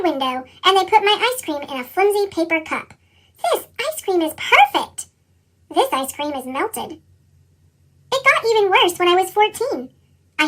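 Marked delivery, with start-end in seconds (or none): 3.4-5.1 higher, slow savoring delight; slow happy child. Acted. White child enjoying ice cream. 5.7-7.0 low, soft, slow disappointment; glum child. Acted.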